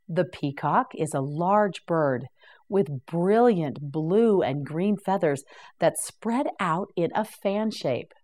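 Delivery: normal talking voice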